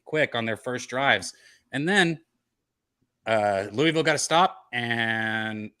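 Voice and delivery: live game call; play-by-play. Acted. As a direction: call the plays like a broadcaster.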